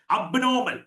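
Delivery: അബ്നോർമൽ opening on "ab"; local-style അബ്നോർമൽ with open first vowel; common mispronunciation. Shown as a demonstration. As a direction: say അബ്നോർമൽ as spelt. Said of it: "തെറ്റായിട്ടാ ഉച്ചരിക്കണം".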